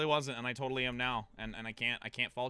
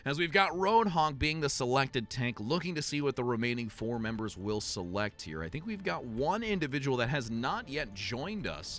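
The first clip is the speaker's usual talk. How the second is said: measured, flowing match commentary; esports play-by-play. Acted. Caster introducing next map to viewers, play-by-play. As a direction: call the line-up like a caster.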